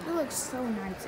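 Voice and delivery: gum smacking while talking; chewing gum. Real, not acted. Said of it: "Excuse my gum smacking".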